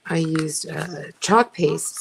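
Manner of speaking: talking while chewing gum; words around a wad of gum. Real, not acted. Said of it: "talk and chew gum at the same time".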